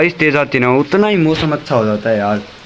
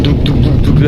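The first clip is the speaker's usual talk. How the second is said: imitating thunder with repeated dhuk sounds; mock thunder rumble; 4 dB louder than usual. Showing viewers how the clouds thunder, mock rumble. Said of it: "ये बादल गरज रहे हैं".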